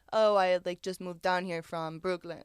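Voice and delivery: lightly put-on Russian accent; a touch of mock Russian. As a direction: imitate a Russian man's accent. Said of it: "That's that's my Russian".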